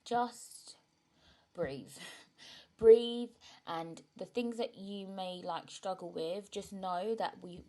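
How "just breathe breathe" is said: soft advice. Real, not acted. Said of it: "I would say, like".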